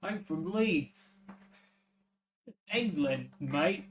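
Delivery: put-on slow Leeds British accent; cheeky Leeds lad accent. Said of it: "My British accent's gonna be, uh, put to the test".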